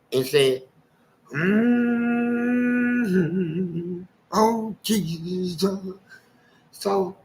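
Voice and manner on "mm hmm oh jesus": higher, then very slow satisfied sigh to Jesus; lightly voiced old lady feigning innocence; smug old lady. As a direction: play the innocent churchgoer after the theft. Big lady after stealing ham.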